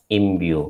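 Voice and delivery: "imbue" modelled on its own with a falling end; pronunciation model. Shown as a demonstration. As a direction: repeat "imbue" carefully as im-byoo. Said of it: "that is how it is pronounced".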